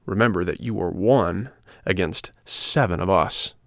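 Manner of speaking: confrontational challenge. Acted. Biggest boy confronts puppet, mildly threatening. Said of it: "confronting him".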